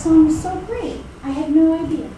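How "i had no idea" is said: laughing. Real, not acted. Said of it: "laughing while telling the story".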